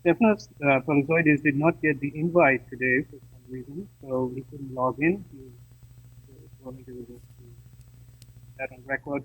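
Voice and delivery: faint phone caller cutting in and out; call dropping out. Real, not acted. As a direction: remote voice breaking up on the line. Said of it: "Still a problem".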